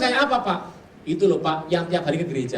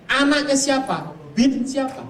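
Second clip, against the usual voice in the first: high, loud probing questions; dukun's questions; 7 semitones higher, 5 dB louder, slower than usual. Retold or imitated. Preacher voicing a shaman grilling his friend, loud and high. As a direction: play the shaman demanding names, slowly.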